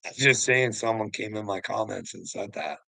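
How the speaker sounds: usual speaking voice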